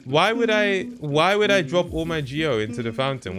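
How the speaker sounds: loud, high, can't believe it; incredulous outrage. Real, not acted. Gamer argues with the fountain, loud and incredulous. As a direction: demand why, half laughing in disbelief.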